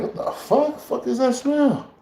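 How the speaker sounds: high, slow shriek of disgust; shocked disgust. Real, not acted. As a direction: recoil at the stink in a high, drawn-out voice. Shocked by a burning skunk smell.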